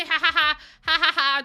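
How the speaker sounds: laughing. Real, not acted. Laughing after joke to chat.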